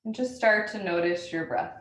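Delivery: unhurried meditation guide with long pauses; spacious, measured breath-awareness instructions; guided meditation. Acted. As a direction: lead listeners gently into noticing the breath.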